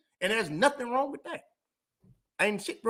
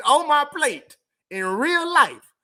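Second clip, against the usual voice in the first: ranting; 4 semitones higher, 4 dB louder than usual. Real, not acted. Rant about busy life.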